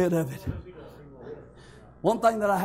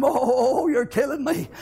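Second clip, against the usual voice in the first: higher-pitched imitation of a wail; half-hearted retold holler, raised in pitch; mild mock scream; 5 semitones higher, slower than usual. Imitating brother hollering during a beating, mild mock scream. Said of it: "would lay there and holler and scream".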